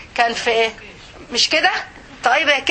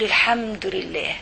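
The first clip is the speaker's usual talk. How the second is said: heartfelt prayer in sujood; sincere whispered-to-God confession; intimate prayer. Pretend. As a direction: pour out your fears to God. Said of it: "أقول".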